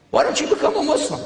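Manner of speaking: eager question. Retold or imitated. Asking the priest straight out.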